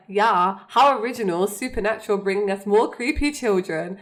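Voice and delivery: lightly acted sarcastic sneer; mock being thoroughly unimpressed; imitated sarcastic dismissal. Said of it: "he's so unimpressed".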